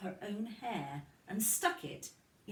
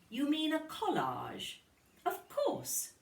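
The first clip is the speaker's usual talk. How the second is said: Missus Kelly; 9 semitones higher than usual. A narrator's reading. Teacher answers Lucy.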